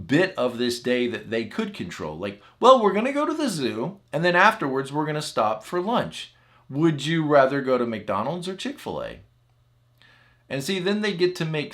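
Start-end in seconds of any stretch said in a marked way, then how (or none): 2.6-9.2 high, bright parent offering a choice; cheerful parent. Retold or imitated. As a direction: coax the child with a treat.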